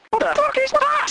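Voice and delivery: high startled outcry; a sudden high-pitched what-the-hell; shocked squeal. Retold or imitated. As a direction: shriek in mock disbelief. Shocked outburst.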